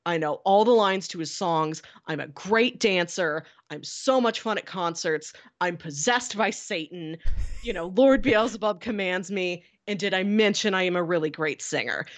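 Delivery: lightly imitated thick New Jersey accent; a hint of a Jersey caller on the radio. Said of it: "talking in this really thick Jersey accent".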